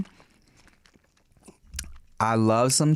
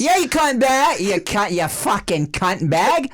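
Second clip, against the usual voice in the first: high, loud mock tirade; mock abuse; 9 semitones higher, 3 dB louder than usual. Echoing co-host's insult at imagined critics, mock abuse. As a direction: pile on the insults in playful outrage.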